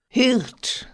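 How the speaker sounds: high, sweetly lilting call; lovely sweet voice. A narrator's reading. Nymph wakes the sleeping herdsman, lovely sweet voice. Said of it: "sagte die liebliche Stimme".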